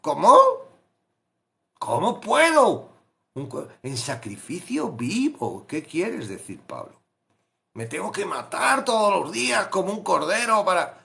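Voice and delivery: confused believer. Pretend. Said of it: "tú lo que tienes que decir es".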